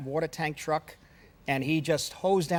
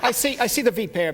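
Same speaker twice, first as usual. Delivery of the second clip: louder, laughing retelling; laughing quote; 6 semitones higher, 5 dB louder than usual. Retold or imitated. Director laughs retelling his answer to the driver. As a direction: laugh through the reply. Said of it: "And I say".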